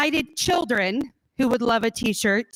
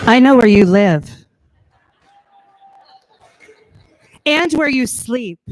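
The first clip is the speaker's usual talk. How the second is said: heavy breathing phone whisper; 9 dB louder than usual. Pretend. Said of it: "Not in a weird way".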